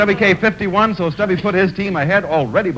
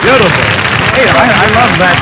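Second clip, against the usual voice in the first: delighted praise; 5 dB louder than usual. Real, not acted. Host praising the answer.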